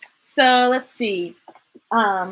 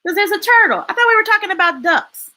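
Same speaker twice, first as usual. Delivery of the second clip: characters talking; 5 semitones higher, much faster than usual. Acted. Characters chatting.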